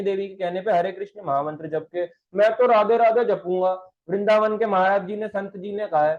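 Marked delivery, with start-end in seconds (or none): 2.3-6.2 louder, higher mock protest; insistent objection. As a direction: imitate a devotee stubbornly objecting. Acting out a stubborn devotee's objection.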